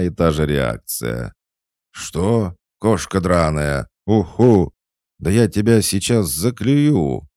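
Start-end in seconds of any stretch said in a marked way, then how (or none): 1.9-7.3 indignant angry shout. Acted. Owl furious at the cat.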